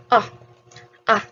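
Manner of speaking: wide open ah sound. Shown as a demonstration. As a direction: open the mouth and say ah. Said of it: "Just open your mouth and say ah".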